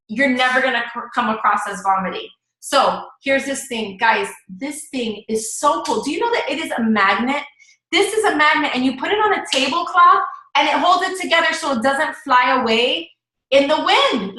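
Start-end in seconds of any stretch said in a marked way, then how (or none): 2.6-14.4 chatty show-and-tell, starting unhurried; genuine sharing. Shown as a demonstration. Coach demonstrating how to share a product, genuine enthusiasm. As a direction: share a favorite find, building in energy. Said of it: "that's how you do it".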